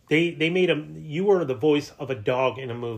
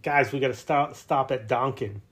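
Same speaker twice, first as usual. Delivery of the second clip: put-on Massachusetts accent; 2 semitones higher, 4 dB louder than usual. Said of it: "Massachusetts accent".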